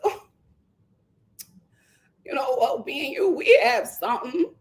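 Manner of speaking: halting, hammed-up tearful plea; mock crying. Contestant pleading that they have something, mock crying. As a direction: imitate someone tearfully clinging to a romance. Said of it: "She starts crying".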